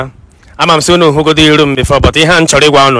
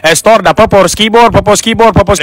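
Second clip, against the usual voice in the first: mock Spanish commentary.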